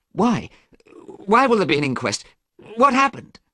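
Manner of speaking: high, loud questions; shouting demand. A narrator's reading. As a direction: demand answers in a panic. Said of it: "Dorian shouted".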